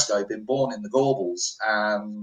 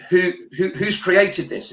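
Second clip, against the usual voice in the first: eager question; 7 semitones higher, 4 dB louder than usual. Retold or imitated.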